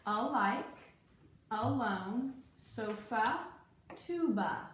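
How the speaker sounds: clearly sounded out, each word apart; schwa demo words. Shown as a demonstration. Teacher reading word list to student, each word clear. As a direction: say alike, alone, sofa, tuba with a light uh at the start. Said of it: "what sound did you hear".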